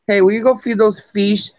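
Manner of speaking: "fish" said as "feesh"; grandma's "fish". Retold or imitated. Grandma asking to feed them, "fish" as "feesh". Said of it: "It's fish, apparently".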